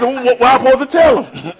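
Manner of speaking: grandma's voice. Retold or imitated. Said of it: "She said".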